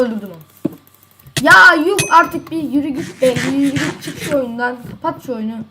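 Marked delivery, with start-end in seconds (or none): 1.4-5.6 angry shout. Real, not acted. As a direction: shout him out of the game. Yelling at opponent.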